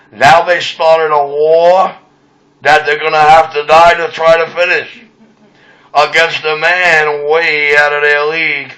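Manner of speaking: ominous threat. Acted. Radio threat to the Avenue boys.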